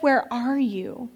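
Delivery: slow, gently rising question; God calling out, drawn out; God's question, slow. Retold or imitated. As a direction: ask it slowly and let it rise. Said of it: "So when God says".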